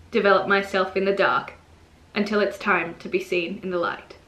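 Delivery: measured, understated poem reading; poetry reading. Real, not acted. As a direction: read your poem aloud with considered pauses between phrases. Reads own poem aloud.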